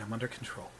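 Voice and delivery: a lightly voiced calm Gideon; Gideon's voice. Gideon calming Armadale, soft and subdued. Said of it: "And Gideon goes".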